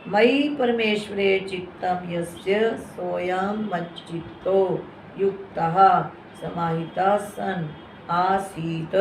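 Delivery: slow, deliberate scripture reading; careful Sanskrit recitation. Shown as a demonstration. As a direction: model the text for students. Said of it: "तो इसको ऐसे पढ़ना है".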